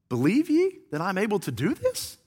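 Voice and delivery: soft, searching question, rising at the end; hushed question. Acted. Jesus questioning the men who followed, hushed. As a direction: ask it quietly.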